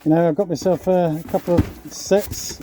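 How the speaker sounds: muffled. Real, not acted. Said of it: "if I sound a bit muffled in a minute, I'm wearing a, um, dust mask".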